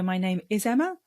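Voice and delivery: "Emma" lifted like an unsure question; upspeak. Shown as a demonstration. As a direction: sound unsure of the name, rising on "Emma". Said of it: "it sounds like I don't know whether".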